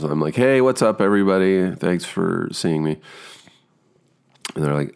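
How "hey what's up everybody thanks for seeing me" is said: bright, relaxed hello to the room; calm, breezy greeting. Retold or imitated. Actor greeting the casting room, calm and breezy. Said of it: "I'm really calm going into auditions".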